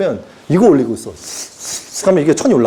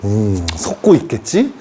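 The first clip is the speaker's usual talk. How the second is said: vague guru answer; 11 semitones lower, 3 dB quieter, slower than usual. Retold or imitated. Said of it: "뭐라 그래야 돼?".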